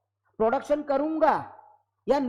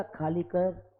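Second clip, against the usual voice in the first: mock sweetly; 6 semitones lower, 6 dB quieter, much slower than usual. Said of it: "बड़े प्यार से बोलेगा".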